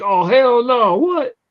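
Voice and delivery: ready to fight; comic reading the insulting envelope, high and angry; angry outburst. Retold or imitated. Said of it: "he's like".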